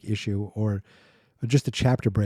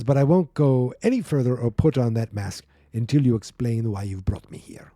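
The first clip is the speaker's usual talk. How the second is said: mock Russian accent, deliberately hammy; bad Russian accent. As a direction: read it with a shaky-quality fake Russian accent. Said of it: "I'm kinda getting it now".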